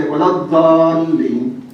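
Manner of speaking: Iraqi recitation accent, long-drawn DALLIN; slow Iraqi-accented recitation of "Dallin". Shown as a demonstration. Preacher shows listeners how Iraqis recite it, Iraqi accent. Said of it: "If you go to Iraq, they are going to say".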